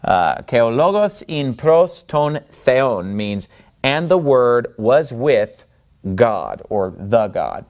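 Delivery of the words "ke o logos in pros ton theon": slow Greek, "logos" stressed on "lo"; measured reading, "theon" stressed on its second syllable; modern Greek pronunciation. Shown as a demonstration. Teacher translating the phrase, slow modern Greek pronunciation. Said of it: "we're using modern Greek pronunciation".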